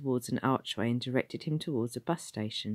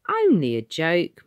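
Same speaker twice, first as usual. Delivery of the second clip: muttered; 5 semitones higher, 9 dB louder than usual. A narrator's reading. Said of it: "muttered the man".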